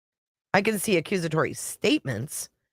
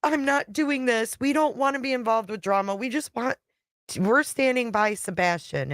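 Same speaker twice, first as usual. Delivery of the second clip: higher, slowed, firm refusing voice; imitating the wife; 6 semitones higher than usual. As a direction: hold her off as the wife, pitched up. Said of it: "She was like".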